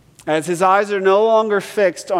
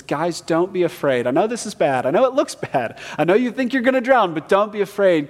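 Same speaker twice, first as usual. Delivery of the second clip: urgent reassurance; 5 semitones higher than usual. Acted. Pastor voices Jesus reassuring disciples.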